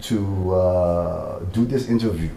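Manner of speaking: light Liberian English accent. Shown as a demonstration. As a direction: speak it with a gentle Liberian accent. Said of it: "interview in the Liberian accent".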